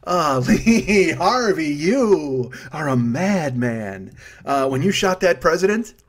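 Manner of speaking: slow, drawn-out movie-star voice; drawling impression. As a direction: stretch each word like a lazy charmer. Voicing a movie line impression.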